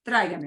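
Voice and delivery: "tráigame" as TRY-gah-meh, first syllable not overdone; "tráigame" with vowels blended, light stress; unpunched accent. Shown as a demonstration. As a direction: glide through the ai of "tráigame" without punching it. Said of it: "you're not really punching that sound".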